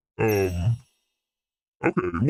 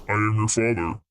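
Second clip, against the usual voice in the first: Darth Vader line; 3 semitones lower than usual. Pretend.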